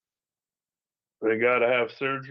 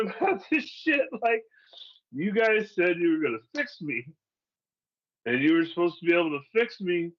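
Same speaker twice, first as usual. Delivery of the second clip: retold angry outburst; 4 semitones higher than usual. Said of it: "all I'm doing is getting fucking mad".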